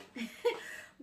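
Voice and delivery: short breathy chuckle; real laugh. Real, not acted. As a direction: let a little laugh slip out. Laughs while eating chocolates. (petit rire)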